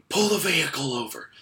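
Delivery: loud, high mock command; imitated shout. Track worker ordering the kid over, imitated shout.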